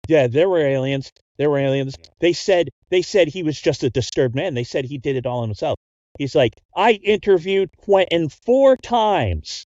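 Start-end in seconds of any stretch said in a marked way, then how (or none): 0.1-5.8 agitated insistence. Acted. 6.8-9.7 each word dragged out slowly and higher; slow insistence. Acted. NPC insisting emphatically.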